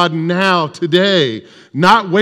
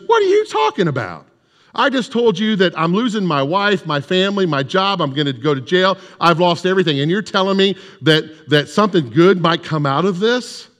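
incredulous addict; 2 semitones higher than usual. Retold or imitated. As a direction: throw it back at him, stunned. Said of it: "and he goes".

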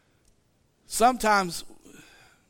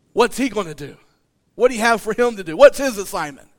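jealous Peter; 8 dB louder than usual. Acted. Peter voiced jealous, demanding.

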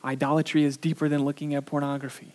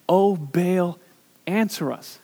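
crying out to Baal; 4 semitones higher, 8 dB louder, slower than usual. Retold or imitated. Idol worshipers crying out.

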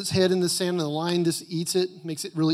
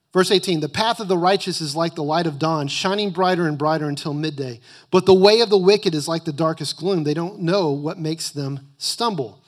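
loud, emphatic scripture reading; preaching; 4 dB louder than usual. Acted. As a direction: preach the verses with full force. Reads scripture at full force.

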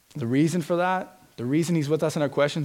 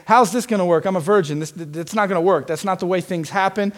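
scoffing, higher and louder, "I know better"; arrogant question; 4 semitones higher, 4 dB louder than usual. Shown as a demonstration. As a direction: ask "How's this gonna work?" with a sneer of superiority. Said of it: "You can ask it arrogantly".

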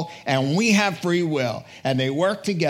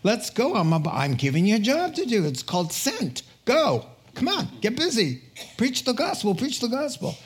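higher, pressing call to action; mock-urgent pep talk, pitched up; acted urgent exhortation; 4 semitones higher than usual. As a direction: urge them on like an impatient boss. Acts out urgent call to get busy.

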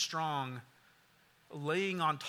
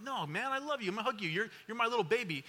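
hamming up a clingy dad smothering his son with love; playful doting dad; 4 semitones higher, faster than usual. Retold or imitated. Dad teasing son during hug.

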